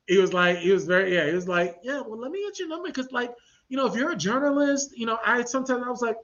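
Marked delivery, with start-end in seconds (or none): 1.8-5.8 imitating the smooth guy. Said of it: "He did sound like that".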